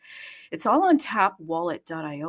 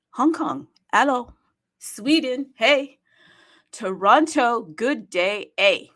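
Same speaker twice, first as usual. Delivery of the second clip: loud, higher roll-call greetings; 5 semitones higher, 5 dB louder, slower than usual. Acted. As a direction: shout each city's hello to the crowd. Calling cities into the space.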